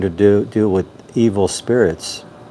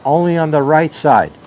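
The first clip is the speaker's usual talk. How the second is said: urgent plea; 5 semitones higher than usual. Acted. Doctor begs police.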